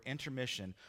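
a hint of a sinister preacher; dark, evil word. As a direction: say it like it casts a spell. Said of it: "the whole tone of that word".

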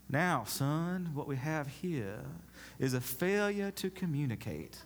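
lightly voiced Southern gentleman drawl; a hint of a blustery old Southern rooster; Foghorn Leghorn. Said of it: "Charleston is more like Foghorn Leghorn".

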